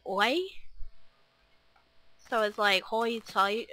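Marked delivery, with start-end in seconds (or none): 0.1-0.4 "oi" said with an OY vowel where "I" is usual; Ocracoke vowel. Shown as a demonstration. Vlogger showing how islanders say I, "oi" with an OY sound. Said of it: "instead of saying I and hi, it would be". 2.8-3.7 halting try at an Ocracoke brogue, OY for long I; Ocracoke accent. Shown as a demonstration. Rusty vlogger trying to impersonate islanders, Ocracoke accent. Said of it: "trying to impersonate them".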